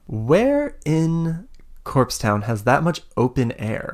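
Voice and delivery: slow, deliberate questioning; stretched words, lightly voiced villain; villain's suspicious question. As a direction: puzzle it out slowly as the villain. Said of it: "and she goes".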